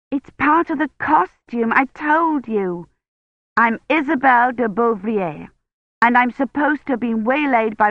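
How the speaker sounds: put-on eager young historian greeting her mentor; a lightly voiced excited girl; bright young Kivrin. A narrator's reading. Kivrin repeats her excuse.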